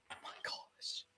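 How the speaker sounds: barely audible whisper. Real, not acted. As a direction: breathe it out under your breath. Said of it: "I'm just so excited".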